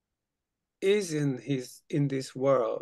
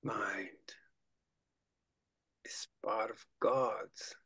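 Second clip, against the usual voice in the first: intimate whisper; 4 semitones lower, 9 dB quieter than usual. Shown as a demonstration. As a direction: whisper it to yourself. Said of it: "repeat that very intimately to yourself".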